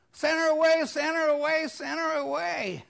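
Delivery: high, loud impatient demand; fading as it repeats; demanding disciples. Retold or imitated. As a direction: insist she be sent off.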